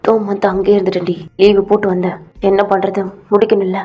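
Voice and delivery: low, earnest man pleading his side; low boyfriend voice. Acted. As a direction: explain yourself low and earnest.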